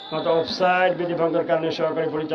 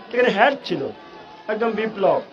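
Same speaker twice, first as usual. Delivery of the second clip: excited commentary; 5 semitones higher than usual. Real, not acted. Header at goal.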